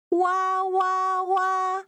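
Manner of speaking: soft, high mock wail; small, held "wah" cry; pretend crying. Teacher recaps the crying piggy's line, soft pretend wail. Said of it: "the sound of crying in Mandarin".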